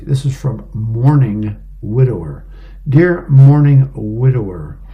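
measured, emphatic newspaper reading; read-aloud advice column. A narrator's reading. Radio reader reading an advice column to listeners, measured read-aloud. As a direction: read the letter out clearly, pressing key words.

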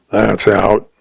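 lightly growled refusal; a hint of growl in it. Old rancher rules out the suspicion, growling. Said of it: "he growled".

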